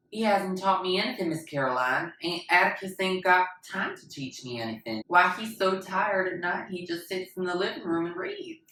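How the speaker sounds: put-on high, loud, eager child's voice; pleading to the teacher, voice up and loud; earnest child protest. Scout insisting to Miss Caroline, high and loud.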